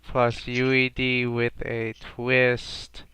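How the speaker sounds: slow, even robot announcer; robotic voice. Pretend. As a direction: read it like a computer. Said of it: "in a robotic voice".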